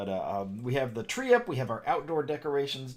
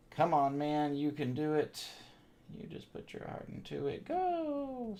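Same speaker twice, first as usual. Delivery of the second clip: coaxing pep talk; 3 semitones higher, 3 dB quieter, slower than usual. Pretend. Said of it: "Sorry, that was terrible".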